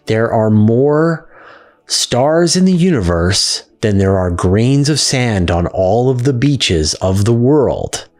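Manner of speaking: each word laid out slowly and deliberately; slow, careful wording. Retold or imitated. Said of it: "you gotta be very clear with the words".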